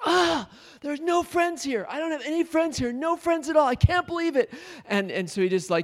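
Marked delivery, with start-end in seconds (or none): 0.0-4.5 mock very high, loud, emoting frustrated kid voice. Retelling a preschooler's complaint about having no friends there: imitating a frustrated kid emoting. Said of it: "emoting about this".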